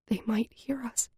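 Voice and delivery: a high, breathy whisper; barely voiced, scared of being heard. A narrator's reading. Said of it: "so softly I barely hear us".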